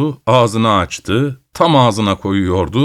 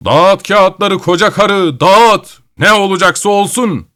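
defiant shout; 7 semitones higher, 3 dB louder than usual. Acted. Grandfather defies the witch.

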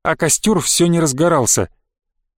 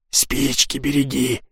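тихо, медленно, передразнивая чужой наказ; насмешливо шепни, как эхо; передразнивая шёпотом; 2 semitones lower, 4 dB quieter, slower than usual. Retold or imitated. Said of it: "передразнил я шёпотом". (тихое насмешливое передразнивание шёпотом)

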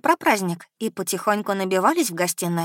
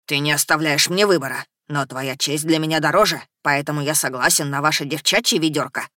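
gurgling tentacle alien; 3 semitones lower than usual. Acted. Eddie grudgingly agrees.

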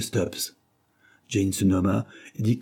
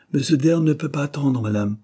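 polite; 6 semitones higher, 4 dB louder than usual. A narrator's reading. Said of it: "répondit toujours poliment l'interlocuteur".

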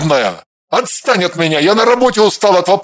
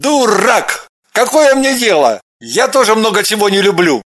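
louder, higher angry outburst; barking; 4 semitones higher, 4 dB louder than usual. A narrator's reading. Man furious at his own doubt, louder angry bark. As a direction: bark it at himself. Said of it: "рявкнул".

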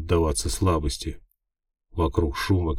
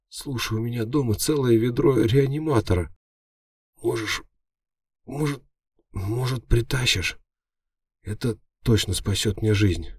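higher, strained wounded voice; pleading hero; 6 semitones higher than usual. A narrator's reading. Wounded hero begging the imp for help, strained plea. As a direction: beg weakly through the pain.

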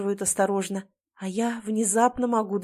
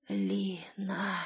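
barely a breath, weak and fading; a dying man calling her name on his last breath; husband dying in the crash, breathing out her name faintly; faint dying whisper; 8 dB quieter than usual. A narrator's reading.

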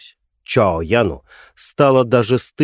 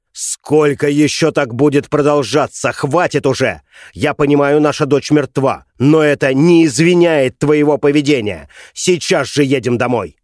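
angry; 4 semitones higher, 3 dB louder than usual. Acted. Husband slaps and scolds wife.

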